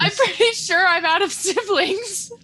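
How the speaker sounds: mock crying. Mock grief over dead characters.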